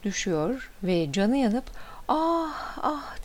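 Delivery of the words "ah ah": high, drawn-out pained "ah"; high narrated yelp of pain; cry of pain. A narrator's reading. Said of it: "diye bağırıyor".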